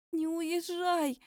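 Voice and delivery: high, slow plaintive plea. Acted. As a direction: beg him to stay. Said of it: "жалобно умоляюще попросила я". (жалобно и умоляюще, медленно)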